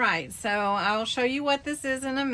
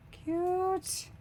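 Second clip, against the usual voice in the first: squealed cute; 10 semitones higher, 3 dB quieter than usual. Real, not acted. Cooing over a gift.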